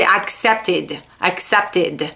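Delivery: accepted with an extra short "tid" syllable; ID ending. Shown as a demonstration. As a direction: end accepted on a light, unstressed -id. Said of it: "pronunciar o E D como se fosse o I D".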